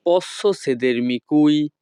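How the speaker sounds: each Italian word spaced out very slowly; slow teaching model. Shown as a demonstration. Teacher models Italian phrase for students, very slow. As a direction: spell it out slowly for learners to copy. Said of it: "Italian ভাষা".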